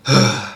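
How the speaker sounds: a weary sigh; tired breath demo. Shown as a demonstration. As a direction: sound like you're worn out. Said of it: "you're like, breathing, you're like".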